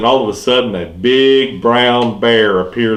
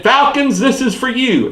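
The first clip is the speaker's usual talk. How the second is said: high cry of team loyalty; fanatic yell; 12 semitones higher than usual. Retold or imitated. Falcons fan yells his team's name, high gleeful cry.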